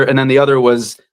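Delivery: normal talking voice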